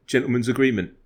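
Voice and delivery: a lightly voiced Harry Kane; imitating Kane badly, barely changed; terrible Kane impression. A host imitates Harry Kane offering a handshake, lightly voiced. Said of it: "That's a really terrible, like, impression".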